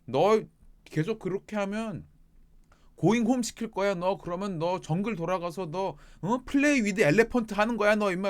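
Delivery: loud, high mock threat; hammed-up telling-off, punched out loudly; imitated threatening scolding. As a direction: play an angry boss warning a worker. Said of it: "정말 말 안 듣는다 그러면".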